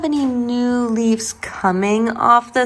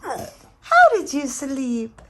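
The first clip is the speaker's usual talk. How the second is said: high, slow drawn-out coo; 5 semitones higher, much slower than usual. Real, not acted. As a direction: stretch it out lovingly to a pet. Cooing to the dog, repeated.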